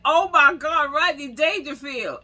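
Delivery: high, loud gasp of recognition; a fan shrieking at a celebrity sighting; starstruck squeal. Retold or imitated. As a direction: squeal his name like a fan who just spotted him. Spotting a celebrity outside.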